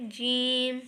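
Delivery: जीम with a long held ee; drawn-out letter. Shown as a demonstration. Teacher showing how to stretch the letter, drawn-out. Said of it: "थोड़ा खींच के पढ़ना है".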